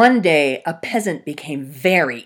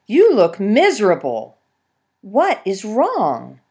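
concerned fox; 4 semitones higher, 9 dB louder than usual. Acted. Fox asking the miserable peasant what is wrong. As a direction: ask with curious concern.

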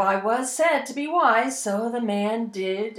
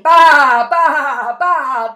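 loud goat bleat; 2 semitones higher, 11 dB louder, much slower than usual. Acted. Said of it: "The goat was always bleating".

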